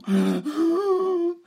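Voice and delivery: very high sobbing wail; crying wail. Shown as a demonstration. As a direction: cry on cue. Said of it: "Can you cry on call?".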